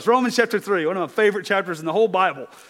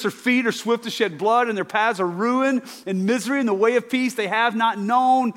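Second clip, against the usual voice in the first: higher, steady reading of verses; scripture reading; 4 semitones higher than usual. Acted. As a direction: read it like the Word. Reads scripture aloud.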